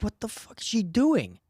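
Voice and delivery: high-pitched mock yell, drawn out at the end; high, exasperated outburst; retold exasperated scream. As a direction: scream it in disbelief without much added volume. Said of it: "And then I'm just screaming".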